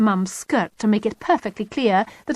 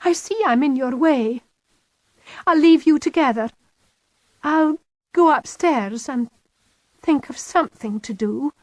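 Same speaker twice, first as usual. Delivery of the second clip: fake martyred sigh; 7 semitones higher, 3 dB louder than usual. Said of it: "I let my voice trail off".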